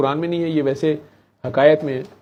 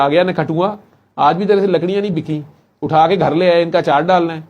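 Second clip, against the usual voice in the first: louder nagging scold; scolding wife; 2 semitones higher, 5 dB louder than usual. Retold or imitated. Wife loudly scolding her husband for unsold firewood. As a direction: nag him loudly as he walks in.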